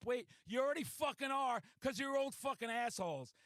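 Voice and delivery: indignant, punchy put-down; retold angry retort. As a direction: re-enact telling off two killjoys. Retold quarrel with concert couple.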